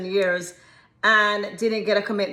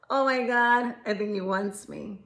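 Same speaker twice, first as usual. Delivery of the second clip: smitten woman; 4 dB quieter than usual. Retold or imitated. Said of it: "you're like".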